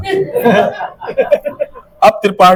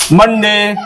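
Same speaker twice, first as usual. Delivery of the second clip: loud demo call; 3 semitones higher, much slower than usual. Shown as a demonstration. Teacher showing the class how to call the day, loud and clear. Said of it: "इस तरह से बोलना है".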